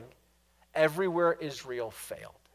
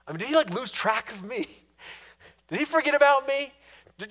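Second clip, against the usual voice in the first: anxious questions pitched higher; worried asking; 5 semitones higher than usual. Acted. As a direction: fret aloud like someone who feels forgotten. Voicing a worried believer.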